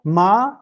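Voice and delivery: MA held on an upward-gliding pitch; Mandarin tone demo. Shown as a demonstration. Lecturer repeating Chinese tones after a native speaker, careful tone drill. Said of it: "So let me repeat that".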